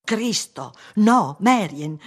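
high, loud and drawn out; loud, slow protest; shocked outcry. A narrator's reading. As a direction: cry out in dismay. Same exclamation repeated aloud in quarrel.

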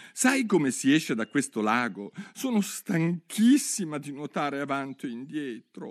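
Alice calling out. Acted. Alice addresses the mouse from the water, eager call. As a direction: politely hail the mouse.

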